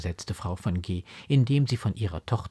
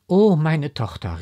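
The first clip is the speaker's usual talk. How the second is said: higher, louder exclamation to a daughter; emotional cry; 5 semitones higher, 7 dB louder than usual. A narrator's reading. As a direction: cry out, overcome with feeling. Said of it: "rief sie". (bewegt ausrufend)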